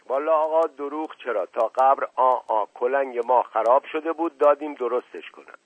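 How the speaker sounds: lightly voiced earnest servant. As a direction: servant pleading innocence, lightly characterised. Servant makes excuses to the deputy.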